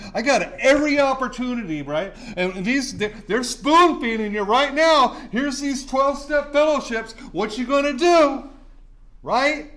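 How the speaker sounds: rising fervour, pressing the room; getting excited. Real, not acted. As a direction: work yourself up as you preach. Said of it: "I'm getting a little excited right now".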